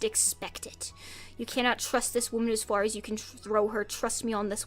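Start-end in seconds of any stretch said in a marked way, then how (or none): 0.0-0.9 hushed ominous whisper. Acted. Whispering the punchline to the viewers as a mock warning. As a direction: breathe it out like a secret threat.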